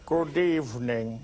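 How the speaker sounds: slow, low, lightly voiced Hitchcock drawl; mock Hitchcock greeting. Host opening the show as Hitchcock, slow and low. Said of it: "Let's do some Hitchcock".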